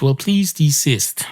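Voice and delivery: slow, measured request from a cat; lightly acted imperious cat; haughty cat. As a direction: draw out a prim demand. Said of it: "And the cat says".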